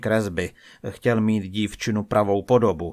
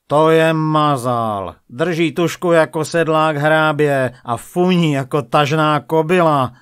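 loud, raised taunting; mocking jeer; 5 semitones higher, 7 dB louder than usual. A narrator's reading. Sage mocking the young painter, loud and jeering. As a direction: jeer over the shoulder, drawing out the first words. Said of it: "posmíval se mu".

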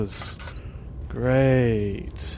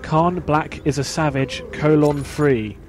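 slow read-out; 2 semitones higher, 3 dB louder, slower than usual. Shown as a demonstration. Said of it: "wants me to say".

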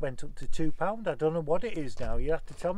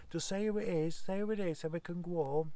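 higher, whiny classmates begging; pleading kids; 4 semitones higher, 6 dB quieter than usual. Retold or imitated. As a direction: beg like restless schoolkids.

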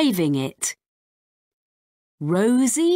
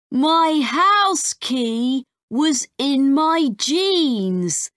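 put-on higher, slow, fretful boy voice; a lightly voiced worried child; 6 semitones higher than usual.

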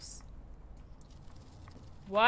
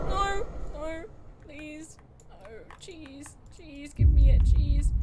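louder begging at the game; frantic loud begging; loud desperate plea; 5 semitones higher, 8 dB louder, slower than usual. Real, not acted. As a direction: demand the cheese, pleading.

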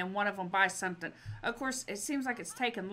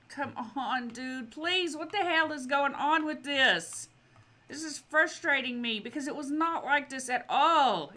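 exasperated, higher and louder; venting real frustration at the game; real annoyance boiling over; frustrated outburst; 5 semitones higher, 4 dB louder than usual. Real, not acted. Frustrated at slow game shoppers.

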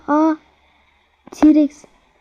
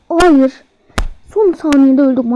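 anguished shout; 4 dB louder, slower than usual. Real, not acted. Died at the last second.

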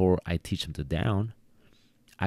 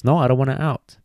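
higher, whiny refusal; stubborn dog voice; 6 semitones higher, faster than usual. Retold or imitated. Trainer voicing a dog that won't release, stubborn. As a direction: play the dog that won't let go. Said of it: "Sometimes the dog goes".

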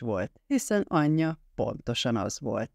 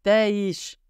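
higher, raised sharp command; shouted order; 7 semitones higher, 4 dB louder than usual. A narrator's reading. Greg shouts at the mother, raised commanding voice. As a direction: snap it out in a contained shout. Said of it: "kiáltott anyjára".

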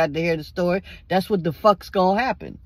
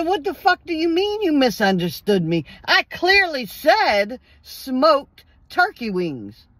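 angry retort; 5 semitones higher than usual. Retold or imitated. Retold angry confrontation with clerk.

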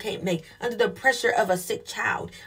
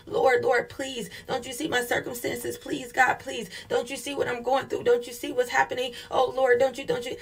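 mock panicked pleading; 3 semitones higher than usual. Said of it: "we're in a panic and we're pleading, we're begging".

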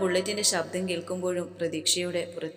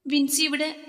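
high, louder startled question; surprised question; 9 semitones higher, 5 dB louder than usual. A narrator's reading. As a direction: blurt it out in surprise. Alex surprised to see Vinsi.

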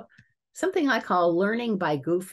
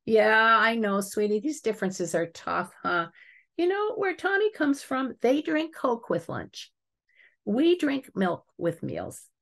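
calm and caring; 5 semitones higher than usual. Acted. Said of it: "calmly, caringly".

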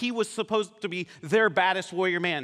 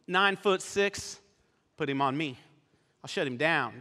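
cocky bad dude; 3 semitones lower than usual. Young guy walking in on a giant, cocky. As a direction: play it unimpressed, taking your time. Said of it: "thinks he's this bad dude".

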